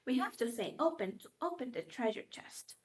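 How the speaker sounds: put-on hushed, breathless whisper to little kids; secret whisper. Teacher letting toddlers in on a secret, whispered.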